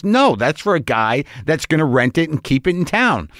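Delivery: mildly overdone refusal, imitating a clerk; exaggerated dismissive tone. Rental clerk refusing a customer the Camry, mock dismissive. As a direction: turn them down with a touch of mock officiousness. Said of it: "She didn't say it in that tone".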